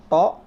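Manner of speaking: emphatic heavy "To"; rounded lips. Shown as a demonstration. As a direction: punch "To" with lips forward. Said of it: "To ini sama, harus monyong".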